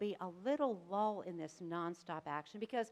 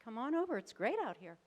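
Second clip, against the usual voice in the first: casual Jesus; 5 semitones higher than usual. Acted. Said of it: "Jesus says".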